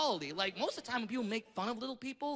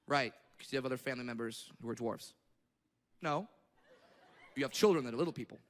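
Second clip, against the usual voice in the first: mock patient question; 10 semitones lower, faster than usual. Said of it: "I was like".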